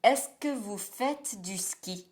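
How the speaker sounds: "Est-ce que vous faites du ski?" with the voice going down on "ski"; slow question, "ski" settling downward; falling question. Shown as a demonstration. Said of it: "the voice goes down at the end".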